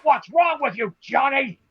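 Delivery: high pleading commentator call; announcer outrage. Retold or imitated. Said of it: "he goes".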